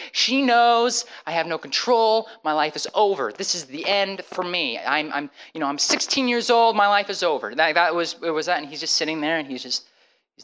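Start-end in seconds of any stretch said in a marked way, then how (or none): 0.1-7.6 acted-out panic, pitched up; freaking out. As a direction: replay a teenager falling apart to his counselor. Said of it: "I'm freaking out".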